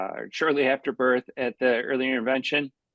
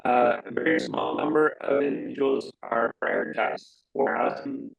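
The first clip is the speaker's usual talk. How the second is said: inside a barrel. Real, not acted. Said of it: "talking into a barrel".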